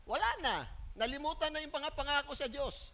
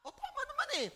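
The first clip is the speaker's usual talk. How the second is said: laughing; 12 semitones higher, faster than usual. Real, not acted. Laughing reply to congregation.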